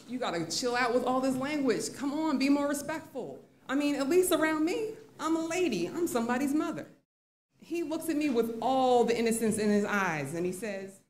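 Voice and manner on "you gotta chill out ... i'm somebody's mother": higher-pitched, exasperated appeal; pleading reprimand. Retold or imitated. Teacher to swearing sixth grader, exasperated scolding. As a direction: scold with rising insistence.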